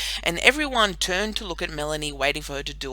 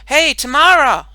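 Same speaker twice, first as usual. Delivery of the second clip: high, loud call across the yard; yell; 11 semitones higher, 17 dB louder than usual. A narrator's reading. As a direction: call out to stop her. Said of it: "she yelled out".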